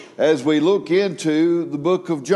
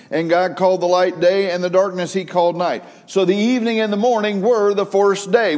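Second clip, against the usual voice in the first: scripture read out with rising fervour; 2 semitones higher than usual. Acted. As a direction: proclaim the Genesis verses to the congregation. Reads Genesis aloud.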